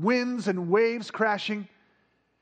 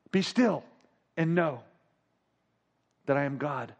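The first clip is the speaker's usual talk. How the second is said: voice of God. Retold or imitated. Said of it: "words of God when he's still saying".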